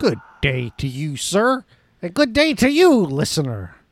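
put-on pirate captain voice. Opening a movie podcast, a host greets the other host and listener in a pirate voice. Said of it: "You sound like a pirate there".

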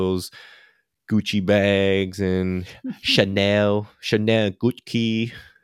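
joking, very slow put-on Vietnamese accent. Jokingly slipping into an accent mid-sentence: Vietnamese accent. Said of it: "it's my Vietnamese accent".

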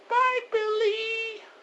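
sweet, adorable, very high-pitched voice. Retelling a film scene, imitating Gizmo's cute goodbye. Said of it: "you hear the cutest, uh, goodbye ever".

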